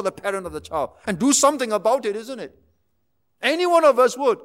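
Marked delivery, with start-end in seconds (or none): 3.4-4.4 emphatic. Acted. Emphatic point then quiet echo.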